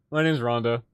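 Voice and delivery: a mild put-on voice for the wife; lightly voiced wife giving her real name; imitating wife. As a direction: mimic her naive blurt, lightly. Retelling wife's blunder.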